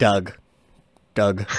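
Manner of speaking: "Doug" with a short uh vowel; short, matter-of-fact "Doug", rhyming with bug; pronunciation of Doug. Shown as a demonstration. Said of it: "it's gotta be pronounced Doug".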